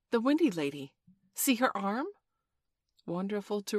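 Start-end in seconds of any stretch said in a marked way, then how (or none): 0.1-2.1 high, loud, excited discovery; cry. A narrator's reading. Nibs showing the boys Wendy's arm, amazed cry. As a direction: point it out eagerly. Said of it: "he cried".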